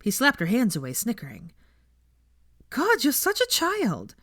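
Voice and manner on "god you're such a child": laughing scold. Acted. Playful teasing scuffle.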